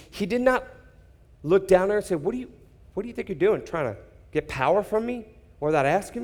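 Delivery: a hammed-up huffy Jesus, clearly pretend; mock indignant Jesus. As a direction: play the rude version he never was. Preacher voices a dismissive Jesus.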